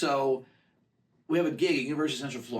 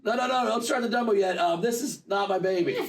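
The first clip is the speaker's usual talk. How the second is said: mildly panicked, higher-pitched disclaimer; flustered protest; 4 semitones higher than usual. Retold or imitated. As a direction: call out awkwardly, retelling an innocent man's alarm. Flustered rider protests to ride staff.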